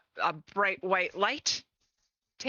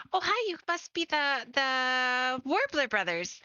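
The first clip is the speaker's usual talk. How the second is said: higher-pitched, eager fan voice; starstruck fan; 6 semitones higher than usual. Acted. Fan greets the famous band, starstruck and higher. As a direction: play a fan recognizing her idols.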